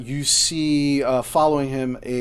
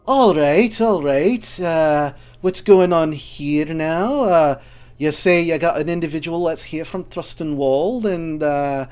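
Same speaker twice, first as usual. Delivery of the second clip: higher, louder, brusque dwarf woman demanding answers; gruff dwarf Lawmaster; 3 semitones higher, 5 dB louder than usual. Acted. Lawmaster demands the party explain themselves, loud and gruff. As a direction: bark at the visitors like a no-nonsense dwarf officer. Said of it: "and he goes".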